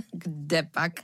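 short laugh into the words; chuckle, then dismiss it lightly; amused mother. A narrator's reading. Mother answering her son's idea, amused. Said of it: "usmála se maminka".

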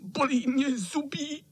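very high, whimpering sick-cat voice; whining cat. Acted. Fat sick cat whimpers to the boys that he can't scold. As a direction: whine pitifully like a poorly tomcat. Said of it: "zakňovral kocour".

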